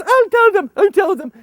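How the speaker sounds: high loud hurried assurance; hasty translator. Retold or imitated. Translator answering the boss, high hurried. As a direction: rush to reassure. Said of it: "he says".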